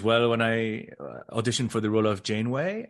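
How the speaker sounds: put-on light French Canadian accent, a bit quick; hint of a French Canadian accent. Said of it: "I'm doing her French Canadian accent".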